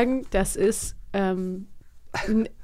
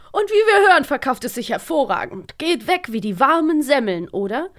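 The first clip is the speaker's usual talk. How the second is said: radio host; 3 semitones higher than usual. Retold or imitated. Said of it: "Was sagt der Radiomoderator".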